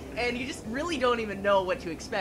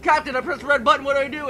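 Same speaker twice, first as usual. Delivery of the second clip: panicked astronaut; 4 semitones higher, 6 dB louder, faster than usual. Pretend.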